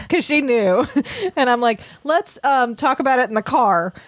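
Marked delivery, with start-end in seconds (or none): 2.0-3.9 higher, lightly soothing mom voice, fast at the end; calm the kid without telling her; mild reassurance. Retold or imitated. Mother reassures child in story.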